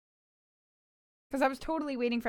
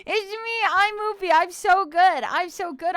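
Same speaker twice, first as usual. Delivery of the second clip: cute puppy voice; 5 semitones higher, 5 dB louder than usual. Pretend. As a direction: coo like a sweet puppy.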